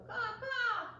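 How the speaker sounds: high cawing crow; crow call. Retold or imitated. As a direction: caw like the crow. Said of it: "He'd go".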